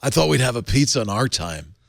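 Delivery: lazy surfer stoner voice; Spicoli impression. Shown as a demonstration. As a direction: do Spicoli from Fast Times. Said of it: "That's Spicoli".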